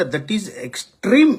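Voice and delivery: slow mocking echo of that is extreme, with "extreme" rising; mock quote. Mocking the politician's own phrase on a news panel, slow. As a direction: drag out the politician's words to ridicule them. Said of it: "ఆయన చూసారా?".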